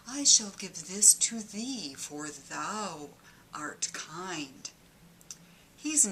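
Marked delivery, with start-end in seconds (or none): 0.1-4.7 hint of King James grandeur; old-fashioned God voice. Comedian mocking God's archaic speech to listeners. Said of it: "how would he say it".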